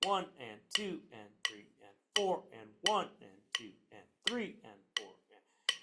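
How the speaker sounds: rhythmic count with "one" and "four" accented, each "and" lighter. Shown as a demonstration. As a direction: count the beats aloud, punching some numbers. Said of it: "So counting it with accents".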